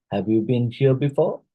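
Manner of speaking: "have you been here before" as a question rising on "before"; rising intonation. Shown as a demonstration. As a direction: let "before" lift at the end. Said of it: "this one is arising".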